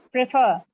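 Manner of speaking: "prefer" said as preFER, second syllable stressed, falling; stress on FER. Shown as a demonstration. Teacher showing the class stress on preFER. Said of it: "the second syllable is stressed".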